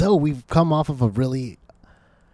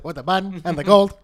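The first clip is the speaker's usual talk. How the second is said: mimicking the judge; 5 semitones higher, 5 dB louder than usual. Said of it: "But the way she said".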